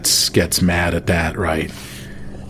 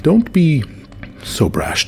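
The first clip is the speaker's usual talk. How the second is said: scolding lord; 8 semitones higher, slower than usual. Acted. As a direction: lift it high to chide. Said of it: "the bearded chainmail guy is like".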